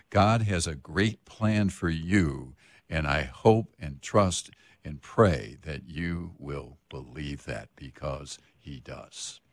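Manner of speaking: slow, sincere direct address. Real, not acted. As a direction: speak slowly, straight to the listener's heart. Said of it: "looking you right in the eyes".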